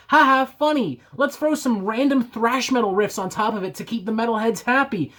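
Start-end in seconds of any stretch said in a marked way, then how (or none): 0.1-1.0 sarcastic fake laugh.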